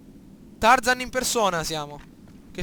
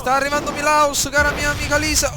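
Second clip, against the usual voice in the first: calling out; 3 semitones higher, 6 dB louder than usual. Real, not acted. Calling out to Lisa in game.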